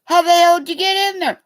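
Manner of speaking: high, loud, fast disbelief; fast stunned yell at the stuck kid; shocked shout. Retold or imitated. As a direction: blurt it out in shock. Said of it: "And we go".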